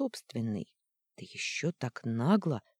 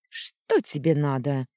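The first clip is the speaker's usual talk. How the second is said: холодно; 6 dB louder than usual. Acted. Холодно посмотрела на меня.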